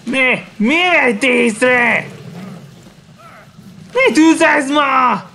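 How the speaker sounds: high-pitched thrilled yells at the screen; egging the hunter on, pitch way up; excited cheering. Real, not acted. Gamer yelling at the monster fight, excited high cheering.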